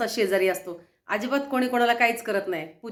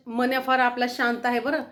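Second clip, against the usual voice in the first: ordinary talk, nothing marked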